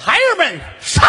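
high, loud shout to charge; rally the troops to attack; grandma shouting her girls into the fight; battle cry. Acted. Grandma rallies daughters to fight.

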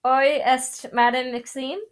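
clumsy attempt at reading French; halting French. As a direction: stumble through French as a non-speaker. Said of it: "I'm not good at French".

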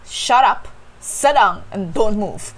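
put-on imagine snapping at the kid, half-hearted; mock snap. Teacher imagining snapping at a restless student, mock scolding. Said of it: "I want to snap".

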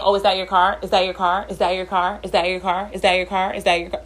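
imitating a nagging coworker on a loop; mock relentless pestering, same tune each time; pestering repetition. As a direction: rattle off the same question insistently. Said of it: "he kept saying it over and over".

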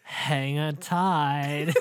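slow surfer line through laughter; laughing surfer voice. Pretend. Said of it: "surfer voice".

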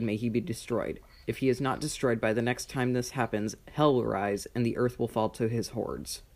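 game master's measured prophecy narration; recounting a dark prophecy; story narration. Acted. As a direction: tell it like an old legend, falling at line ends.

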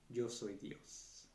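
very slow and hushed, lingering on each word; ominous reveal. Retold or imitated. The voice reveals itself to the man, hushed and very slow. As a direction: drop it quiet and slow like a dark twist. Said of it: "la voz le responde, corrigiéndolo de nuevo".

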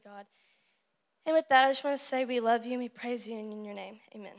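earnest, flowing youth-group prayer; spoken prayer. Real, not acted. Speaker praying over the students and leaders, an earnest prayer. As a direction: pray aloud for the whole room, steady and sincere.

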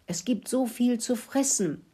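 high, delighted little squeak; happy piping. A narrator's reading. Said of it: "fiebte Mokelinchen und freute sich". (freudig und hoch gepiepst)

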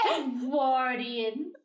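laughing correction. Real, not acted. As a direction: say it through laughter. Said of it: "I'm sorry. Edwardian".

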